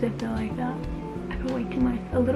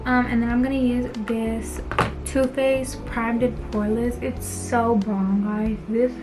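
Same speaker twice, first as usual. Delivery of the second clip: talking around a retainer; slightly slurred retainer speech; wearing a retainer. Real, not acted. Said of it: "I'm sorry if I'm talking weird. I have my retainer in right now".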